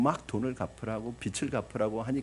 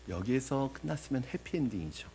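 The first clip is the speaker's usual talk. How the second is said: usual speaking voice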